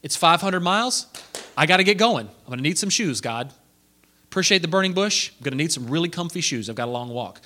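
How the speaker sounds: lightly voiced Moses, breezy and upbeat; a hint of a cheerful Moses ready to go; mock eager Moses. Preacher voicing an eager Moses asking God for shoes, breezy. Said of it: "Moses doesn't say".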